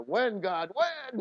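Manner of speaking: pleading, pitch leaping up at the end; mildly acted desperate plea; crying out to God. Man retelling years of prayer for a wife, crying out. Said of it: "I cried out to God".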